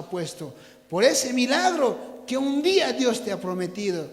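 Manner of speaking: low, soft preaching in measured phrases; held-back preacher's build-up; restrained exhortation. Real, not acted. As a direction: gather the congregation for what is coming. Exhorts congregation before the shout.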